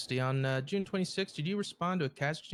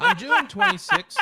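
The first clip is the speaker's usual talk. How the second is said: laughing; 13 dB louder than usual. Acted. Prosecutor laughs starting statement.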